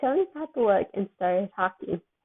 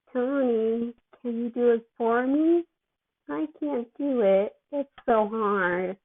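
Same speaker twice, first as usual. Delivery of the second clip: slow, whiny and drowsy; groggy whine; 3 semitones higher, slower than usual. Acted. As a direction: plead like a sleepy drugged kid. Drugged Peter struggling.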